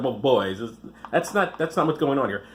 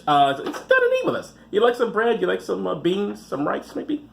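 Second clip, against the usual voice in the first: mock folksy host; 3 semitones higher than usual. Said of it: "mock host inviting to eat".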